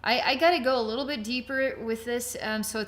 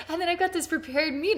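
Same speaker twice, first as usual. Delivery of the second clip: cooking show host; 7 semitones higher than usual. Pretend. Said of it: "I feel like I'm on a cooking show".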